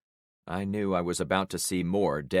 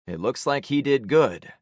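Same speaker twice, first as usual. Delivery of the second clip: consoling; 5 semitones higher, 5 dB louder than usual. A narrator's reading. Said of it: "I consoled".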